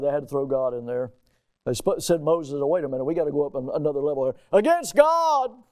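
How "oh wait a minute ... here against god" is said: preacher mocks the accusers raising the stakes, sarcastic; mocking accusers.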